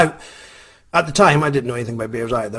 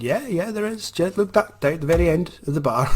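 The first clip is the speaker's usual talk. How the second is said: amused barman; 6 semitones higher than usual. Retold or imitated. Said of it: "the barman said".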